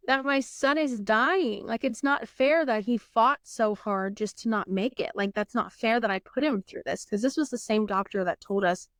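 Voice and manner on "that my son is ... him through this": retold tearful plea. Mother protesting to the doctor, mildly tearful. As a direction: relive the tearful protest, lightly. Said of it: "And I was crying".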